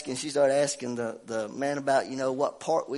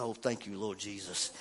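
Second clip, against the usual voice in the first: relieved thanks; 5 semitones lower, 10 dB quieter than usual. Retold or imitated. Relieved private prayer.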